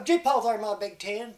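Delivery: high, loud call to the team; hollering. Acted. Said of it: "He'd holler".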